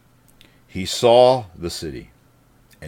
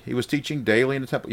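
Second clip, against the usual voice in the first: higher, fast, incredulous question; mock surprise; 4 semitones higher, 3 dB quieter, much faster than usual. Preacher feigns disbelief at the verse, fast and incredulous. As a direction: act astonished that he was teaching daily.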